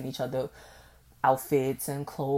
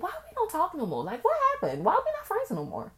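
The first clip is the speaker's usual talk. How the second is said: acting out her younger self; 4 dB louder than usual. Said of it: "and I was like".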